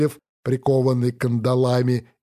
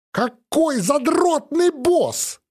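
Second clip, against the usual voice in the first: high mock growl of annoyance; 12 semitones higher, slower than usual. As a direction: snarl it out, half joking. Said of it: "рыкнул я".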